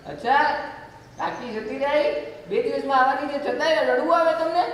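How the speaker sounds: put-on incredulous boy. Boy asks in disbelief.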